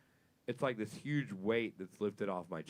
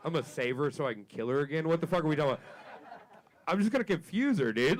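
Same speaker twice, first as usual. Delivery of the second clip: incredulous rant; 7 semitones higher, 7 dB louder than usual. Retold or imitated. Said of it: "I'm like".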